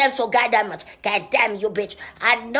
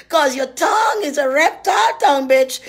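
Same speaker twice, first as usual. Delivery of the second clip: louder preaching shout; 4 dB louder than usual. Acted. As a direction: yell it from the pulpit. Shouting at rival.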